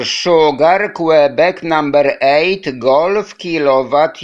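slow, deliberate callsign spelling; slowly. Real, not acted. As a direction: spell each word out slowly. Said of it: "sorry, one more time, slowly".

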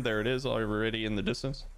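talking through hiccups; hiccuping mid-sentence. Real, not acted. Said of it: "Excuse me, I have the hiccups now".

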